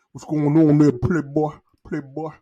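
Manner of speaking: light imitation of a heavy-lipped Southern accent; lazy Southern greeting, playboy; a hint of Louisiana drawl. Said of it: "they talk like they lips heavy".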